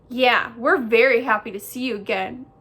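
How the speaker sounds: loud, eager echo of the sister; echoing brother bear. A narrator's reading. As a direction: parrot it loudly as the tagalong brother. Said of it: "echoed brother bear".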